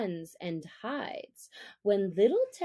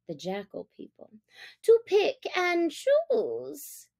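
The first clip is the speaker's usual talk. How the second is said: high, louder jackal voice, wheedling; a fawning jackal, pitched up; sly jackal; 5 semitones higher, 3 dB louder than usual. Acted. Tabaqui flatters Father Wolf in a high voice.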